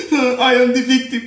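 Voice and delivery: laughing, sing-song imitation of a fake victim; mock victim voice. Mocking the boy who plays victim on Facebook, laughing imitation. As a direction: scoff as you parrot his self-pity. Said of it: "Al kana kal fon kumbo ni Facebook".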